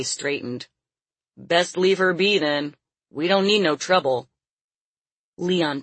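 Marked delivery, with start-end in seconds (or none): 1.4-4.3 gruff and uneasy; wary big man. Acted. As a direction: back off warily. Dante cautious.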